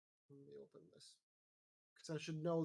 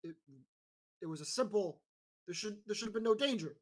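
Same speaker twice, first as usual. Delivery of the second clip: troubled questioner; 4 dB louder, faster than usual. Acted. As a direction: stumble over the words, mildly agitated and rising. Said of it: "turns and approaches you, goes".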